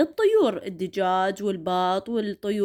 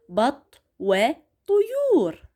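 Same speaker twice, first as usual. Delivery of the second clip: slow reading aloud; much slower than usual. Shown as a demonstration. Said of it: "راح اقروا وياي".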